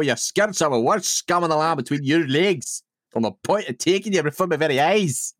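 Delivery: a touch of mounting temper; lightly voiced husband scolding his wife, temper building; angry Jamie. Jamie scolds Claire by the river, temper building. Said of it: "Here we go, my audition piece".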